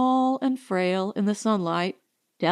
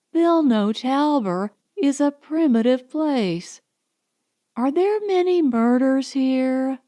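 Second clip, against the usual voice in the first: excited Allison; 3 semitones higher than usual. Acted. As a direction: gush like a thrilled tourist. Allison excited after photo.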